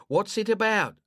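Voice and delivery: a cautious neighbour asking who's there; suspicious old woman. Acted. Woman answers over intercom.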